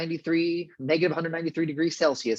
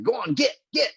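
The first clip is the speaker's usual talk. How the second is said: mock shooing in a higher pitch; gruff shooing; 9 semitones higher than usual. Host likening the goodbye to releasing a puppy, mock gruff shooing. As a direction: imitate gruffly sending a puppy away. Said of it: "the Doctor's kinda gruff".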